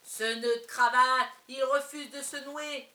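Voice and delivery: martelé, lent et beaucoup plus fort; furieux. Acted. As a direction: crier sa colère mot à mot. Père furieux contre la cravate. (père exaspéré par sa cravate, crie lentement)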